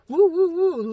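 high, loud cheering woo; excited whoops. Retold or imitated. Tarot reader cheering the Queen of Wands, excited whoops. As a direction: whoop it out like you're on fire.

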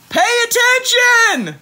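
high, loud, slow scolding; teacher's shout. Acted. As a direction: drag out tardy like a cross teacher. Teacher scolding in read book.

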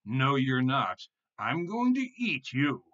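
loud, high, drawn-out threat; slow, menacing troll shout; troll's roar. A narrator's reading. Troll threatens to eat tiny goat, slow roar. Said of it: "roared the troll again".

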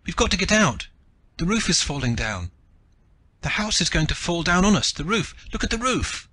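high, loud terrified shriek; shrieking child. A narrator's reading. Little girl warning everyone the roof is falling, terrified shriek. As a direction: scream it like a panicked little girl. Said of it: "Rindy shrieked".

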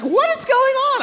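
very high, drawn-out wife imitation; baffled wife. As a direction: demand answers in a high, slow voice. Wife voiced, far higher pitch.

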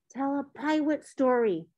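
put-on small child's pleading voice, R softened to W; begging little boy. A narrator's reading. Three-year-old close to his friend's face, begging. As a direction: beg like a toddler wanting a story. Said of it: "Theo begged".

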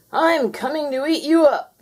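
high, loud ghostly groan from far off. Acted. The phantom calls to the cat, a loud ghostly groan. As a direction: moan it like a hungry phantom. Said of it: "groaned the voice".

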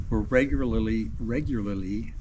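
numb lips from the cold; words slurred by frozen lips; frozen mouth. Real, not acted. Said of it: "I think my mouth is frozen".

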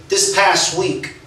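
slow prophetic pastor. Retold or imitated. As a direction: lay it down slowly like a revelation. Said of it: "And he said".

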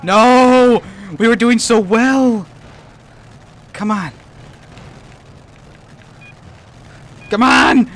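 loud, high shouts of frustration; real frustrated yelling. Real, not acted. Gamer yells at the game over a lost run, loud and high. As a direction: yell as the run slips away.

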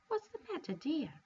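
put-on a kindly old woman chiming like a bell; gentle old fairy. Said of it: "gentle tones of an old woman and the bright tinkling".

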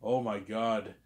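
put-on a light touch of French accent; slightly French-accented retelling; imitated French accent. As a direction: mimic a date's French accent, only lightly. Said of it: "She has her French accent and said".

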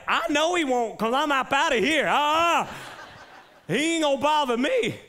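high, loud rushed panic, hamming it up; panicked exit. Retold or imitated. Pastor hamming up fleeing the shark, loud high mock panic. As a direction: bail out of the water in mock panic. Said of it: "I'm like".

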